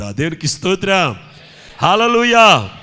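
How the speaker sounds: loud shouts of praise; booming revival preacher; full-force preaching. Acted. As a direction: shout hallelujah out to the congregation.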